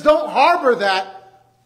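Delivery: slow, each word stressed; slow emphatic command. Acted. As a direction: press each word firmly and slowly.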